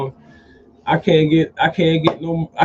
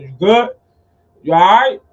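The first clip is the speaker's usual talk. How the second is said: quick, raised-voice safety check; loud check-in; 3 semitones higher, 9 dB louder than usual. Retold or imitated. Boss checking on a new worker up a ladder, calling out. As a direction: call out to check on someone, pitched up.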